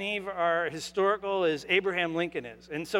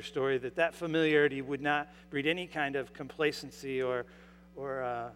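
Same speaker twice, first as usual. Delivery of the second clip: prayer; 2 semitones lower than usual. Acted. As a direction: pray humbly before the sermon. Pastor's opening prayer.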